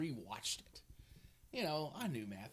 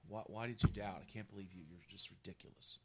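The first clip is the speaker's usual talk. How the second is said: scornful disappointed Jesus; 5 semitones lower than usual. Retold or imitated. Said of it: "instead of being disappointed".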